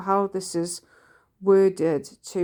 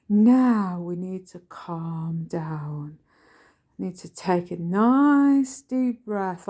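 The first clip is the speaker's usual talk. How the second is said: slow, whispered soothing calm; imitating a mindfulness narrator's hush; very soft voice; slower than usual. Son mimicking a mindfulness voice to calm mother, whispered and slow. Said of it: "a very soft voice".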